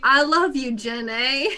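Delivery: a light touch of a movie character's voice; lightly voiced film quote; Forrest Gump. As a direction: lightly imitate a tender film line. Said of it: "one of those Forrest Gump moments".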